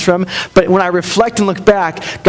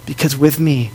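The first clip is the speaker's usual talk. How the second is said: low, hushed words of comfort; tender and steady, with room between phrases; gentle reassurance; 5 semitones lower, 4 dB quieter than usual. Retold or imitated. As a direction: soothe them quietly, as God speaking. Voices God's comfort to listeners.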